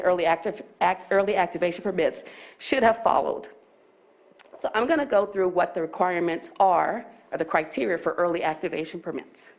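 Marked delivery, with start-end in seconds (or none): 4.6-9.5 a bit winded, breathing between phrases. Real, not acted. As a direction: talk while catching breath after the stairs. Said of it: "I sound like I'm out of breath".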